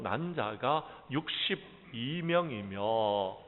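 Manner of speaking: slow, solemn Bible reading from the pulpit; scripture reading. Acted. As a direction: read each name slowly and deliberately. Reads scripture aloud.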